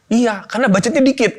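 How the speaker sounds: high quote dissolving into laughter; laughing child quote. Retold or imitated. Son answering his tired father about the budget, laughing. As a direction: laugh through the son's cheeky answer.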